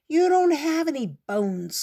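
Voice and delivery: high, loud indignant cry; cried out. A narrator's reading. The ant cries out at the fly, high and loud. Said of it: "cried the ant".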